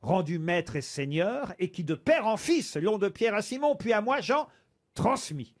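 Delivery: measured poetry reading, mildly dramatic; reciting a fable. Acted. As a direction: recite the verse like a storyteller. Reads La Fontaine fable aloud.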